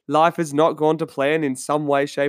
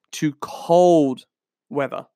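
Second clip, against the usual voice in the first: whispered; much slower than usual. Real, not acted. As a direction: whisper "cold weather" as if it's bad news. Dreaded cold, dropped to whisper.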